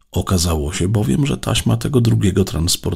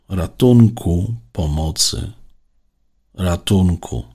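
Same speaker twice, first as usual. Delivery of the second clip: calling for help again; 3 semitones higher, 4 dB louder, slower than usual. A narrator's reading. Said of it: "potem znów".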